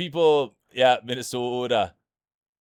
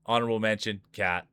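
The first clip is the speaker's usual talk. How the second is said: emcee reading out the final standings; light mock awards emcee; results announcement. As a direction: announce the placings to the crowd.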